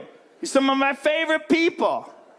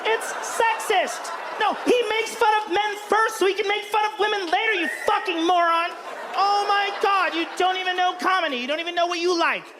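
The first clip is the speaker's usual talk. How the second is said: acted couple's quarrel; 2 semitones higher than usual. Acts couple arguing on ride home.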